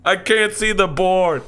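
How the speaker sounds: put-on whiny kid voice. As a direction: complain like a giant kid. Playing a giant second grader.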